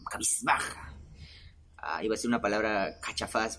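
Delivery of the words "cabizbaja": lightly imitated halting, trailing intonation; a hint of a pensive TV-host impression; softer, pausing between the words; Jaime Bailey. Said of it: "hice la entonación de Jaime Bailey".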